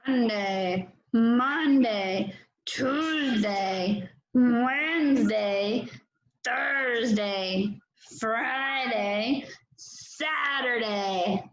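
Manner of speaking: a hint of a grumpy bear, drawn out; growly grumpy bear days of the week. Shown as a demonstration. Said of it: "using the grumpy bear voice when they say them".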